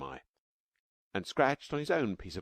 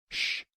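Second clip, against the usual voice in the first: hushing shh. Acted. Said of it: "frowned to himself".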